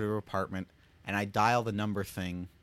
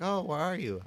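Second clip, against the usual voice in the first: imitating grandmother; 7 semitones higher than usual. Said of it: "And she's like".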